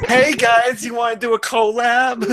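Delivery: chirpy Canadian-sounding YouTuber; Canadian accent. Acted. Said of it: "now that sounded like Canadian".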